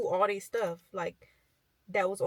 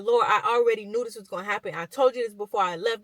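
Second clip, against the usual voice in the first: fast, a touch louder, fed-up retort to the Lord; annoyed complaint; 5 dB louder, faster than usual. Retold or imitated. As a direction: complain to God, a bit exasperated. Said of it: "He was angry".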